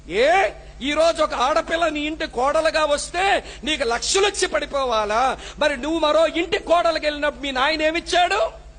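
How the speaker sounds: forceful sermon to the mothers-in-law; fiery pulpit rebuke; preaching. Acted. Preaching against dowry.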